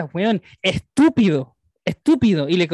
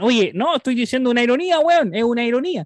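higher-pitched mock protest; imitated commenter; 4 semitones higher than usual. Social media users defending their comments, mock protest. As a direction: lightly imitate an online commenter making excuses.

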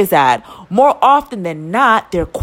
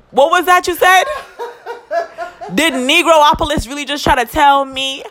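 laughing disbelief; 5 semitones higher than usual. Real, not acted. Incredulous retelling with laughter.

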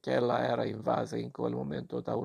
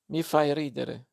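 scornful, higher and louder retort; extreme disdain; 3 semitones higher, 4 dB louder than usual. Acted. Boy scorning the visitor, disdainful retort. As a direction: dismiss her with contempt. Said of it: "con disdegno estremo".

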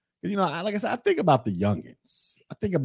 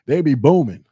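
excited; 6 semitones higher, 9 dB louder than usual. Real, not acted. Excited repeat after laugh.

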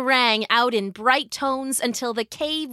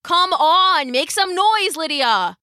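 high, loud rallying cry; urgent shout; 6 semitones higher, 4 dB louder than usual. A narrator's reading. Galen urging cornered Lydia to join in, shouting. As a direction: egg a friend on, falling on the name. Urging friend over din of fight.

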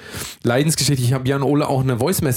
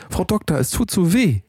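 mock whiny plea; 7 semitones higher than usual. Retold plea to the dentist.

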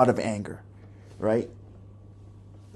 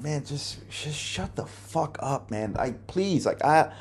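exasperated plea; 4 semitones higher than usual. Retold or imitated. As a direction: plead at a higher pitch for the yelling to stop. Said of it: "And I'm like".

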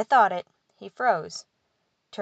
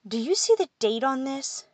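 scoff; 7 semitones higher than usual. A narrator's reading. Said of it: "he scoffed".

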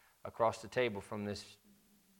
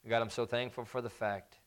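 earnest prayer. Acted. Closing prayer after sermon.

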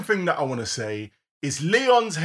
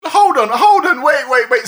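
urgent interruption; 7 semitones higher, 6 dB louder than usual. Real, not acted. Stopping co-host before spoilers.

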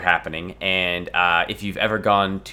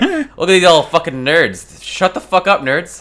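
battle roar; 8 semitones higher, 7 dB louder than usual. Acted. Acted annoyed rant at nerds.

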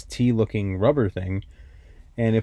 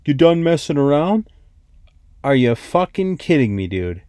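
annoyed lift operator; 3 semitones higher than usual. Retold or imitated. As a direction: imitate the grumpy tow-rope guy scolding. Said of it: "and he goes".

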